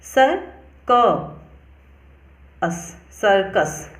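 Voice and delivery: सर, क, अस in separate pieces, then सर्कस whole; syllable by syllable. Shown as a demonstration. Teacher sounding out circus for learners, broken into parts then blended. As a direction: break सर्कस apart slowly with pauses, then join it. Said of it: "यहाँ पे क pronounce होता है".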